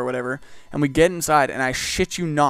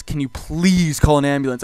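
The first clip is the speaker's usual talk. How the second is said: stretched, louder PLEASE in a plea; pleading; 5 dB louder than usual. Retold or imitated. Customer begs the worker for an ambulance, pleading. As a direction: lean hard on "please", begging mildly.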